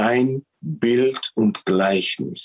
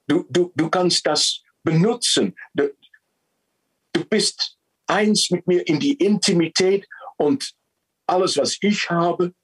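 a lightly raised, fatherly God voice; God speaking; 4 semitones higher than usual. Retold or imitated. Preacher voicing God to mankind, lightly raised and generous. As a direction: speak as God, proud and giving. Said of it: "Er sagt".

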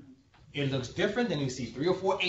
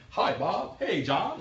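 lightly voiced, chipper mock white-person greeting; mock a white person's friendly hello; imitated white person; slower than usual. Speaker parodies white people greeting each other, imitated white person. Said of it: "You know how white people, you know how y'all do".

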